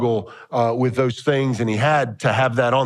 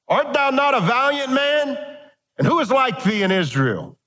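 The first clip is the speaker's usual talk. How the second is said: pitched-up, ringing rebuke; David taunting; 4 semitones higher than usual. Acted. David rebuking Abner for failing to guard the king. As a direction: scold the guard from afar.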